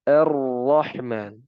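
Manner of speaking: "Ar-Rahman" slow, r trilled once only; one gentle r trill in "Ar-Rahman"; proper tajwid ra, one vibration; correct single trill. Shown as a demonstration. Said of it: "cukup getaran yang alami".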